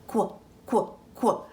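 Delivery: "quack" cut down to a short "kwuh"; quacking duck sound. Shown as a demonstration. Teacher modelling the duck sound for children, "quack" as short "kwuh". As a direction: say "quack" as just its opening kw sound. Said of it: "make those three quacking duck sounds".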